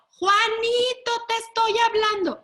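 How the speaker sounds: put-on loud, high, exasperated parent shouting the child's name; exasperated call. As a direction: yell for a kid who keeps ignoring you. Parent calling louder, exasperated.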